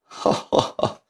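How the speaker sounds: soft, voiceless ha-ha-ha; narrator's acted chuckle, softly done; delighted laugh. A narrator's reading. Guide amused at the chief greeting the wrong man, soft laughing. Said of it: "李成章乐得哈哈大笑".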